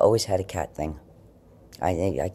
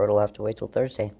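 ordinary delivery

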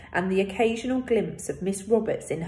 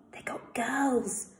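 slow, breathy whisper; 5 semitones higher, 5 dB quieter, slower than usual. A narrator's reading. Tucky whispers to David in class, slow hushed whisper. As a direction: hush it so the teacher won't hear. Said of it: "Tucky whispered".

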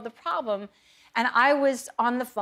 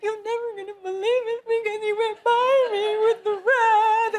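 outraged phone call; 13 semitones higher, 4 dB louder than usual. Retold or imitated. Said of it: "I was like".

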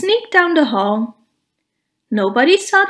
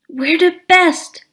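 put-on loud, boastful kid's yell, a bit higher; 5 semitones higher, 4 dB louder than usual. A narrator's reading. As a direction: bellow it like a show-off. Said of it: "yelled Stumpy".

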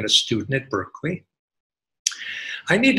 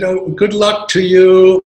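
friendly retold call; 7 semitones higher, 11 dB louder, slower than usual. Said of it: "And he said".

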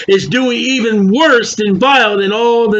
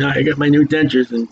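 whistling s; 8 semitones lower than usual. Real, not acted. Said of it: "I apologize for my whistling".

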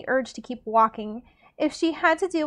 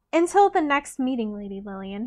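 charming. Acted. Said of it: "with a charming smile".

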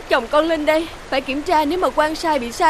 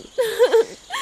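sob; 6 semitones higher than usual. Acted. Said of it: "đừng có khóc lóc nữa".

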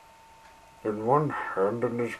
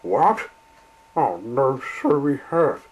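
surprised; 4 semitones higher, 7 dB louder than usual. Acted. Engine realizes guard left.

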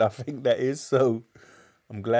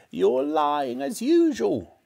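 slow, raised granny screech; yelling; 4 semitones higher, slower than usual. A narrator's reading. Grandma accusing George of lying, yelling. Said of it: "Grandma yelled".

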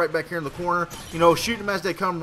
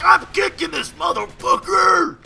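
high, slow, hammed-up rage yell; angry at a teammate, hammed-up scream; mock scream; 12 semitones higher, 6 dB louder, slower than usual. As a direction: scream it out in fake fury. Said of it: "I'm screaming and shit".

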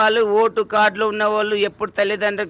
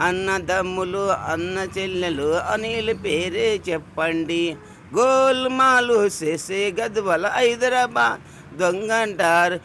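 slow rant; much slower than usual. Real, not acted. Ranting at the interviewer.

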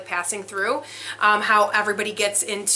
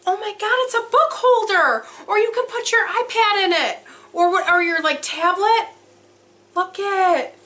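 much higher, gushing excitement; high, delighted gush over a book holder; thrilled squeal; 10 semitones higher than usual. Real, not acted. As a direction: squeal at the surprise find. Overwhelmed unboxing a gift.

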